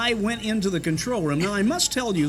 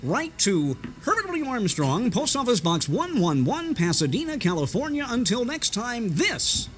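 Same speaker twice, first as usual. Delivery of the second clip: higher stretchy radio pitch, trailing off; imitating Garner Ted Armstrong; radio preacher address read; 5 semitones higher than usual. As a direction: rattle off the address like an evangelist. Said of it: "give the address to write to so quickly".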